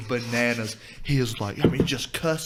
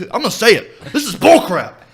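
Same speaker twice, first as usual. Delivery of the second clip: laughing, louder; 8 semitones higher, 7 dB louder than usual. Real, not acted. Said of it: "pardon my language".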